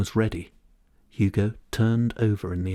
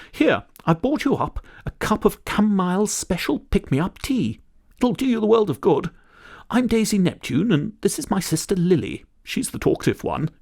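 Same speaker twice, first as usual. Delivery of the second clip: put-on very high, fluttery old-lady voice; kindly old lady; 12 semitones higher than usual. Daisy offers Hugo tea and introduces herself, high fluttery old-lady voice. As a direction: offer the tea like a doting granny.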